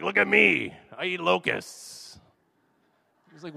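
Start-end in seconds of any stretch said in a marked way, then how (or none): 0.0-2.2 loud, high show-off cry, then slower; hammed-up awkward John the Baptist; awkward attention-seeker. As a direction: play the oddball demanding to be noticed. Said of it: "he's like this awkward guy".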